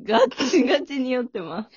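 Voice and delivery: tipsy declaration. Real, not acted. (酔っ払った声で)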